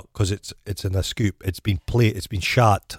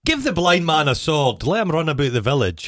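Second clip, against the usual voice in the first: villager mockery; 7 semitones higher than usual. Villagers mocking blind man.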